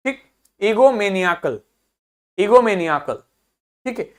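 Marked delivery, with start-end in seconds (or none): 0.6-1.6 ईगोमेनियाकल as one word, stressed on निया; निया standing out within an unbroken ईगोमेनियाकल. Shown as a demonstration. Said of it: "निया अलग से सुनाई दे रहा". 2.4-3.2 ईगोमेनियाकल as one word, stressed on निया; निया standing out within an unbroken ईगोमेनियाकल. Shown as a demonstration. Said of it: "निया अलग से सुनाई दे रहा".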